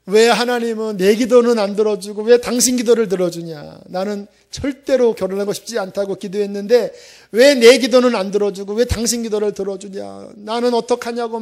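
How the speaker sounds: wailing why at God through tears; crying plea. Retold or imitated. Husband wailing to wife about unanswered prayer, tearful loud complaint. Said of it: "그러면서 울면서".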